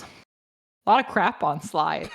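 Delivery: slow, lightly voiced little kid; toddler voice. Toddler points out dirt on the slide, slow and lightly childlike. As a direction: say it slow like a two-year-old. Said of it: "He goes over and he goes".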